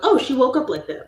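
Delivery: high, loud gushing praise; mock admirers. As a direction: gush like an amazed fan. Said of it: "people are like".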